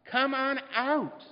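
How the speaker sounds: loud, high and slow calling out; Jesus calling Monica out of her tomb, loud and high. Shown as a demonstration. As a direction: sing the name out across the room. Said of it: "he would say".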